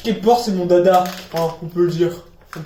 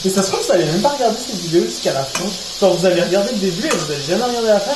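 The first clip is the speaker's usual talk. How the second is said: fast rant; much faster than usual. Real, not acted.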